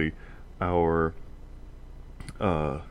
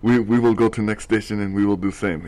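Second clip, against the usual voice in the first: put-on Russian accent; 3 semitones higher, 4 dB louder than usual. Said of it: "now I am also speaking in a Russian accent".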